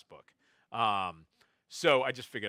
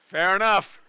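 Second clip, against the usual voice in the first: laughing punchline; 9 semitones higher, 15 dB louder, slower than usual. Retold or imitated. Punchline response, audience laughing.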